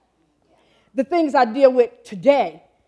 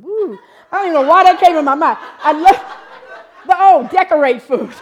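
laughing; 6 semitones higher, 10 dB louder than usual. Real, not acted. Laughing at her own slip.

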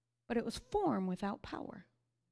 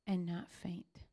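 hushed whisper; 4 semitones lower, 6 dB quieter than usual. Real, not acted. Closing Isaiah verse softly.

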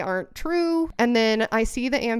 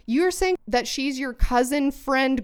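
higher-pitched, indignant insistence; exasperated, emphatic retelling; retold firm confrontation; 5 semitones higher than usual. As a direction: lay down the law, re-enacting an argument.

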